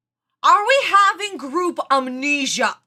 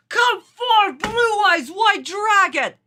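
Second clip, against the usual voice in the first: slow, raised summoning call; Kaiba; 2 semitones higher, slower than usual. Retold or imitated. Fan re-enacting the card summoning, grandly declaimed. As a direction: declaim it grandly, stretching the words. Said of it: "he just grabs the card".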